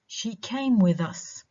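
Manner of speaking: slow, with "came" high and "with us" weak; unstressed with us. Shown as a demonstration. Teacher demonstrating an example, "with us" unstressed. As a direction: lean on "came", drop "with us". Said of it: "no stress".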